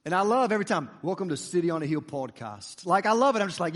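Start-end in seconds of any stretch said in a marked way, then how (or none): 1.0-2.9 lower-pitched imitation Australian host; Australian accent. Preacher imitating his favorite podcast's welcome, Australian accent. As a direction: put on an Australian podcast greeting. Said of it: "because they're Australian".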